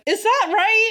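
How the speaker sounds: high, rising incredulous question; hammed-up, baffled double-take; mock disbelief. Imitating crewmates reacting to Data's southern drawl, high-pitched disbelief.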